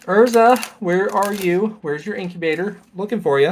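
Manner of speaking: high call for someone hiding; playful calling out. Pretend. Calls out to missing card.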